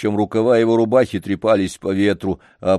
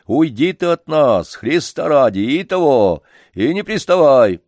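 higher, louder irritated retort; old organ-grinder telling the janitor to go away, angry; angry old man; 5 semitones higher, 5 dB louder than usual. Acted. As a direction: shoo him off in irritation. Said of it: "рассердился вдруг Лодыжкин".

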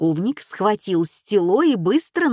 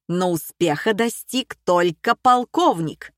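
plain reading voice

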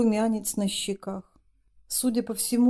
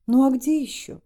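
higher, louder challenge; exasperated retort; 5 semitones higher, 5 dB louder than usual. Acted. Masha to Yana, higher and louder in exasperation. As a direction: fling the question back at her. Masha throws up her hands.

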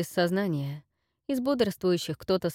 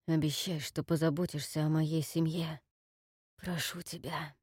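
quiet pleading; 2 semitones lower, 6 dB quieter than usual. Acted. Wounded man begs friend earnestly.

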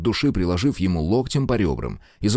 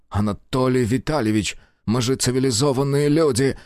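pleading; 5 semitones higher than usual. Acted. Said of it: "взмолился хозяин дома".

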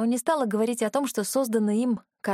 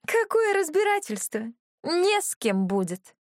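злорадно; 10 semitones higher than usual. Acted. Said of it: "неприятный смех".

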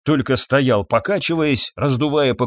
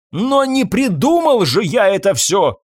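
cry out; 8 semitones higher than usual. Acted. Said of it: "крикнул доктор".

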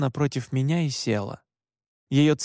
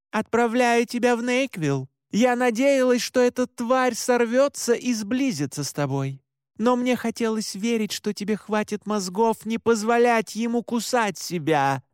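curt; 8 semitones higher than usual. Acted. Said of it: "бросила Оливет".

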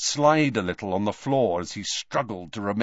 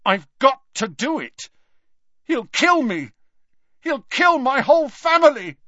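much higher and louder, panicked; frightened boy pleading for his family; desperate outburst; 7 dB louder than usual. Acted. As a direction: cry it out in terror.

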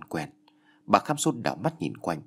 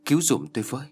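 higher-pitched cry for help; narrated plea, moderately raised voice; straining to call loudly; 4 semitones higher, faster than usual. A narrator's reading. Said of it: "cố kêu lớn".

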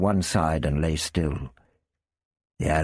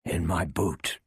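hoarse mutter. Acted. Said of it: "Ian muttered hoarsely".

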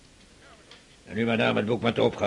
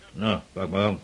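gruff low; 5 semitones lower, 9 dB quieter than usual. Acted. Father hands book gruffly.

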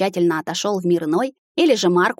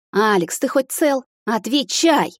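worried call; 6 semitones higher, slower than usual. A narrator's reading. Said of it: "тормошила меня Энди".

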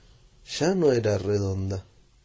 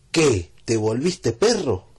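louder, slow mock puzzlement; teasing question; 4 dB louder, slower than usual. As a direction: tease him for barking. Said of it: "Anastasio le dijo".

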